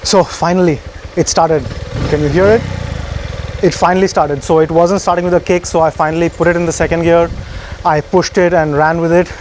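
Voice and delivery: slightly winded after running; out of breath. Real, not acted. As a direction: talk while catching your breath. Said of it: "that's why I'm a bit out of breath".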